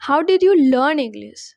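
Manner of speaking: measured teacher's model sentence; model sentence for repeating. Shown as a demonstration. Teacher has learners repeat after her, clear model delivery. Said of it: "Repeat after me".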